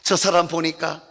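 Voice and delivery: high, amazed onlooker; onlooker in puppet voice. Acted. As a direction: exclaim like a stunned passerby. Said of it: "누가 저분을 보면". (놀란 구경꾼 같은 높은 목소리)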